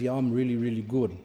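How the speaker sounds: self-satisfied "really good", trailing down; proud helper agreeing smugly; smug pride. Retold or imitated. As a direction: preen about it smugly. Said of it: "the person gets proud and says".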